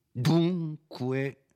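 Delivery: dunque deciso, più alto e forte; con energia. Acted. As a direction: scandisci dunque con forza minacciosa. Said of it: "proferito con una tale energia". (un dunque pieno di energia minacciosa)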